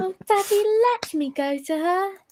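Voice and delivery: put-on fancy, high-pitched, girlish British voice. Voicing Elizabeth Afton begging Daddy to let her play: high-pitched British voice. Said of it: "It's just a high-pitched British voice".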